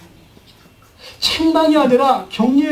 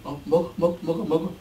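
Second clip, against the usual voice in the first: coaxing softly; 4 semitones lower, 8 dB quieter than usual. Acted. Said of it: "예수님이 생선 주고".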